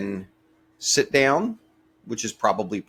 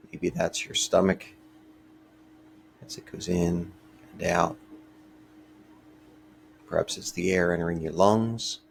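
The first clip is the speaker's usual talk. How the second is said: calm, unhurried meditation voice with long pauses; guided meditation. Real, not acted. Teacher leading a short breathing meditation for listeners, calm and measured. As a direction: gently guide listeners through each breath, leaving space between phrases.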